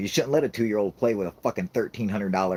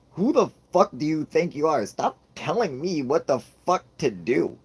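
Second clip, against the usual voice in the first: high, loud, exasperated dad rant; indignant scolding; 8 semitones higher, 5 dB louder than usual. Retold or imitated. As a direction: tell the kid off, voice raised and incredulous. Dad scolds bossy toddler.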